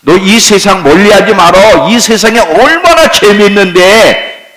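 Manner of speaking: lightly voiced tempter, coaxing; a hint of a sly devil luring you in; preacher plays Satan coaxing the congregation; Satan's tempting voice. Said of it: "계속 사단은 계속 우리를 유혹해요".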